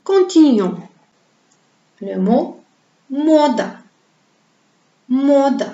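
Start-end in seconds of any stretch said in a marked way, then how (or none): 3.1-3.6 "mode" with a long, stressed O and light final a; exaggerated first-syllable stress in "mode". Shown as a demonstration. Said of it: "Le son O est tonique". 5.1-5.7 "mode" with a long, stressed O and light final a; exaggerated first-syllable stress in "mode". Shown as a demonstration. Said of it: "Le son O est tonique".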